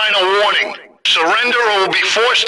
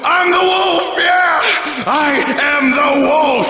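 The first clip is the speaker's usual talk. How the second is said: shouting; 5 semitones higher than usual. Acted. Madman shouts.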